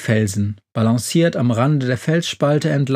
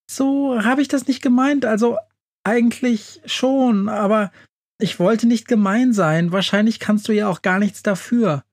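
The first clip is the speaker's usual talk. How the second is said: much higher, fumbling mouse voice; flustered mouse; 9 semitones higher than usual. A narrator's reading. Mouse tries to take back the insult, high and flustered. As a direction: backpedal in a squeaky little voice.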